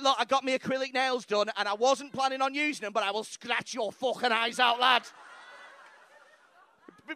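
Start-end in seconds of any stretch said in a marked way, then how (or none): 0.0-5.0 mock angry Scouse girl. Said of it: "She's like".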